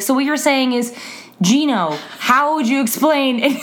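lightly mimicked student framing it back; a touch of earnest stalling; imitating Gino. Teacher mimicking her student turning a question back, light. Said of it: "he would just frame it back to himself with his first name".

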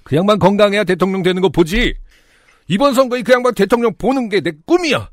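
a hint of an eager grandpa; very old man. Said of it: "할아버지는 들뜬 표정으로 말을 이어갔습니다". (들뜬 노인 목소리)

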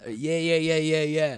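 high, mock urgent repetition; imitating visitor. Mimicking UK visitor tapping out verbally, high mock urgency. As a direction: chirp the word over and over in mimicry.

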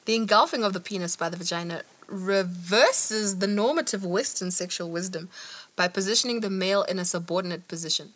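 reading aloud. A narrator's reading. Podcaster reading an academic passage to co-host, measured read-aloud.

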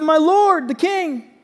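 high, loud call to the king; shouting out. A narrator's reading. David calls after Saul outside the cave, shouting. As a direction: call out across a distance. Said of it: "came out and shouted at him".

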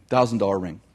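preacher repeating the line to point out the joke; deadpan repeat. Shown as a demonstration. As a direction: say "Thousand dollar ring" low and dry as the joke. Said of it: "so it's supposed to be funny".

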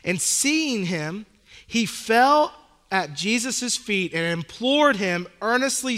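measured, earnest Bible reading; scripture reading. Acted. Pastor reading Mark to the congregation, solemn reading. Reads scripture passage aloud.

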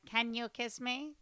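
slow, stiff mock translator voice; a hint of a robotic gadget reading words out; computer voice. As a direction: imitate a robotic translation device. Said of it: "in their little computer accent".

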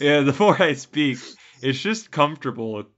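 mock Canadian accent creeping north; lightly put-on northern Canadian accent; drifting northern accent. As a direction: let a fake Canadian accent take over. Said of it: "going farther north as you're speaking".

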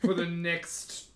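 very slow, weary drawl. Acted. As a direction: stretch every word out. Character drawls slowly.

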